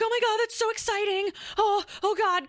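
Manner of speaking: high, fast, gushing mom voice; imitating mom squealing with delight; high-pitched excited mother; mom's excited gush. Mom reacts to pregnancy news.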